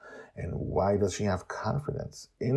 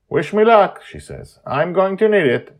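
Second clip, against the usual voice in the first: put-on high girl voice; 11 semitones higher, 12 dB louder than usual. Yumio leaves for battle.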